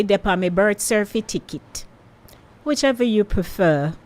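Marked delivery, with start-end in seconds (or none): 0.0-1.8 light Jamaican patois lilt on Depa me birth certificate. Shown as a demonstration. Host offering listeners the patois version, light Jamaican patois. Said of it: "or I could say".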